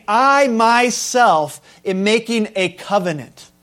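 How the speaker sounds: "I myself" leaned on, slow and deliberate; stressed I, slow. Shown as a demonstration. Preacher stresses God's own "I" to the church. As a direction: weigh every word, starting on "I". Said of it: "He is saying".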